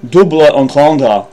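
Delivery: "Double entendre" with French vowels, "doobla on-tondra"; non-native attempt at French "Double entendre"; French-style pronunciation. Shown as a demonstration. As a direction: imitate a French recording saying "Double entendre". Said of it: "Sounds French to me".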